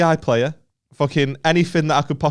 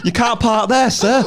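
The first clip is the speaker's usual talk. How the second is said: higher, louder put-on voice; mock official; 10 semitones higher, 5 dB louder than usual. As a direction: deliver it like a jobsworth warden. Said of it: "imitating a parking quote".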